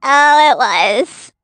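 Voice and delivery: chipmunk voice. Pretend. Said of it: "you just sound like you're on helium".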